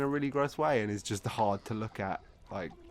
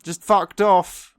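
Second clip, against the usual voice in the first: exasperated slow blurt; 7 semitones higher, 11 dB louder, much slower than usual. Real, not acted. Exasperated outburst.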